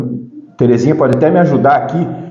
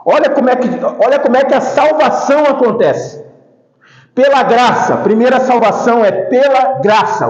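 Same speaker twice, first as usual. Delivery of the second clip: higher-pitched, insistent sermon delivery; preaching; 7 semitones higher than usual. Acted. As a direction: call the congregation's attention to it.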